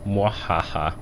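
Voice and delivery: evil mock cackle; a playful villain laugh; mad scientist. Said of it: "Evil, I know".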